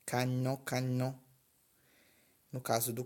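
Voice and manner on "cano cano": 'cano' with the nasal vowel held at the end; 'cano' nasalised in the middle and at the end. Shown as a demonstration. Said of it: "Então, pronuncia-se".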